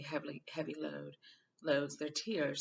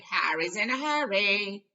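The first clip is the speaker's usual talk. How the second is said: teasing; 5 semitones higher, 11 dB louder, slower than usual. A narrator's reading. Fred teasing.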